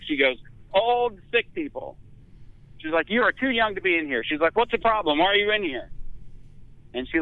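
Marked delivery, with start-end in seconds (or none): 0.7-2.0 slow, high lightly voiced nurse; a hint of a stern nurse. 3.1-5.9 higher, lightly voiced scolding nurse; a hint of a stern nurse.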